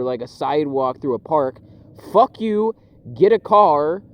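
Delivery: loud, high ranting at cyclists; angry rant. Retold or imitated. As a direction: yell it out, fed up with the bikes. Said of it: "And I'm just like".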